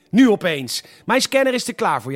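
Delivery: sudden loud outburst; shouting. Acted. Comic character shouts at his girlfriend about the scanner, loud. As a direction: yell it, over the top. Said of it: "Sorry dat ik schreeuw".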